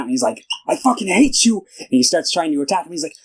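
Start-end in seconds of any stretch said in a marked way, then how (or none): 0.7-1.6 high-pitched mock outburst; freaking out. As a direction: act out a hysterical tantrum. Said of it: "he starts freaking out".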